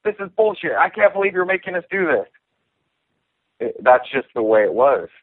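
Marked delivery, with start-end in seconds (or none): 0.0-2.3 high, whiny mock rant; mimicking Leben freaking out. Fighter mocking Leben's outburst in a high whine. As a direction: squeal the complaint like an upset housemate. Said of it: "Leben just freaking out".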